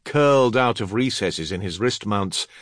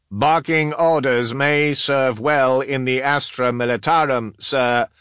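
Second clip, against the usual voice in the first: high, loud, declaimed official voice; Master of Artifice; 6 semitones higher, 6 dB louder than usual. Acted. Artificer reproving an officer who yelled, high loud voice. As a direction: pitch it up and project every word.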